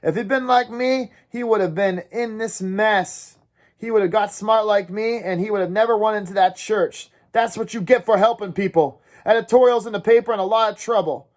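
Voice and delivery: high, urgent ranting to a dazed friend; raving rant. Acted. Dally raving at Ponyboy in the car, high and urgent. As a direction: spill it all out feverishly. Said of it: "kept raving on and on".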